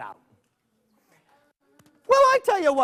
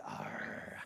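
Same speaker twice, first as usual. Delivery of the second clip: lightly growled bear threat, slowed; a hint of a low bear growl; 7 semitones lower, slower than usual. Bear threatens the boy with a mild growl. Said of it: "And the bear said".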